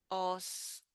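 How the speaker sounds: "Oscuro" softly split, long pauses between os, cu, ro; syllable by syllable. Shown as a demonstration. Teacher leaving room to repeat oscuro, syllable by syllable. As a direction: spell out "Oscuro" by sound, syllable after syllable. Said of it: "We have the O sound in the beginning".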